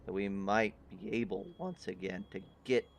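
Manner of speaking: a weary king pleading for alliance; grave king. Acted. GM voices the king.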